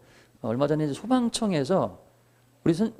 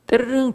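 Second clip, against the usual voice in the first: imitated alarm bell ring; 11 semitones higher, 6 dB louder than usual. Instructor voicing the fire bell people hear, high imitated ring. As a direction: mimic a ringing alarm bell, pitched up. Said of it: "벨소리를 들으면".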